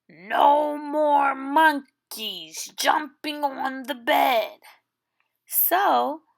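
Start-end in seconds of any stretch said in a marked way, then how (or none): 0.1-4.6 a hint of a doctor, whispered; doctor's whispered warning. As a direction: warn them in a hushed doctor's voice.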